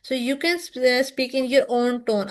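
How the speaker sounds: very slow, every word spaced out; slow and deliberate. Shown as a demonstration. Teacher reassuring students about their accent, slow and deliberate. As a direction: spell it out slowly so students absorb it. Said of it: "teacher states rule slowly".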